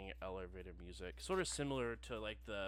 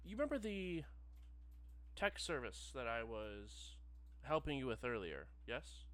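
customer service voice. Acted. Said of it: "familiar customer service voice".

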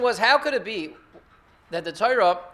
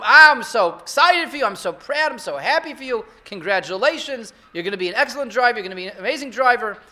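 excited proud parent; 2 semitones higher, 5 dB louder than usual. Retold or imitated. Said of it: "You tell him".

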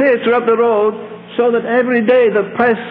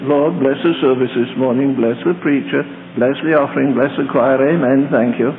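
much lower, droning mock prayer of a bored deacon; mocking rote prayer; 9 semitones lower than usual. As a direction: rattle off a hollow prayer in a deep mocking drone.

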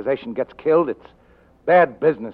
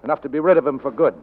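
pressing, louder and higher accusation; hard accusation; 4 semitones higher, 5 dB louder than usual. Acted. Detective confronting his lying client, raised accusing voice. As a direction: corner her with each point, building.

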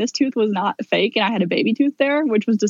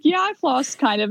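higher, slow, hedging answer; unconvincing lie; 4 semitones higher, slower than usual. Retold or imitated. Patient lying to the dentist about flossing, sheepishly hedging. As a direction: stretch out a feeble fib. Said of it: "like, gonna lie".

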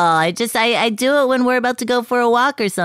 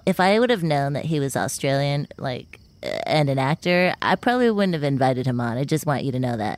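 low, hushed grumble; quiet, much lower private remark; confiding aside; 9 semitones lower, 5 dB quieter than usual. Acted. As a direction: speak softly behind the guest's back. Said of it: "I can still hear you".

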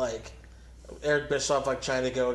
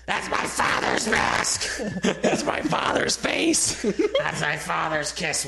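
slow, high, laughing breathy disbelief; mock horrified Stephanie; 3 semitones higher, slower than usual. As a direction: gasp it out through laughter.

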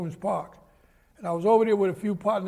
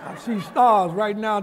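slow, louder, laughing through it; 6 dB louder than usual. Real, not acted. Man laughing as he recalls the detective's slap, slowly. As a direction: chuckle while reliving the smack.

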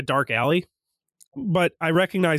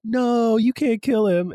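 high, drawn-out mock protest; imitated pleading; 7 semitones higher, slower than usual. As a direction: plead as the whole audience, retold. Everyone pleading in retold scene.

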